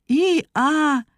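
high, marvelling echo of a hee-haw; admiring donkey imitation. A narrator's reading. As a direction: repeat the bray in wonder. Muki echoes the donkey's bray. (ámuló szamárhang-utánzás)

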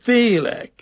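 high, drawn-out wail; narrator's acted cry of fear; frightened bawling. A narrator's reading. Scared small boy refuses the rope, frightened bawling. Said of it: "bőgni kezdett".

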